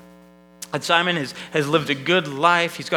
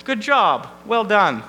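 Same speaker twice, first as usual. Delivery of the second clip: smug self-praise. Retold or imitated.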